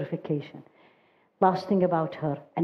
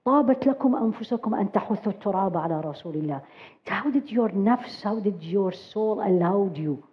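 retold pained cry; 3 semitones higher, faster than usual. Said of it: "she was crying in pain".

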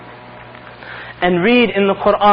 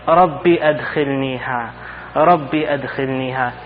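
pleading; 6 semitones lower, 5 dB quieter, slower than usual. Retold or imitated. Man begging to enter Jannah.

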